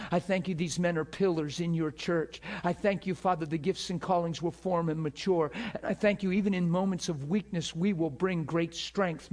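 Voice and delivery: steady, flowing prayer of thanks. Real, not acted. Preacher thanking God for these men, prayerful. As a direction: pray aloud in an unbroken, earnest stream.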